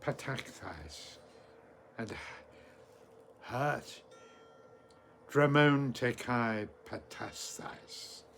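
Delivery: deliberate phrase-by-phrase recital with long pauses; very slowly. Shown as a demonstration. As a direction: teach the verse slowly, piece by piece. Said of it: "I'll say it very slowly".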